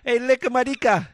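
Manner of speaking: high, loud sing-song tease; childish taunt. Retold or imitated. Brother teasing sisters, loud sing-song taunt.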